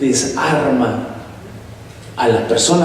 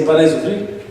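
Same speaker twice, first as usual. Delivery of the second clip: put-on odd TV-ad accent. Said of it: "con acentos raros que dice".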